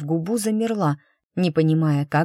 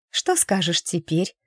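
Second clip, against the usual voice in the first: cold question. Acted. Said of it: "спросила она холодно".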